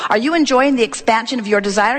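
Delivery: brisker, firmer delivery of the question. Shown as a demonstration. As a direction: put power behind ENJOYING. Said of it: "in a more powerful way".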